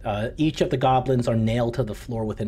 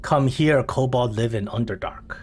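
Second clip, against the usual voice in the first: lightly voiced kobold, broken English; simple eager little kobold explaining. Meepo explains the door to the party, lightly voiced kobold. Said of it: "Meepo says".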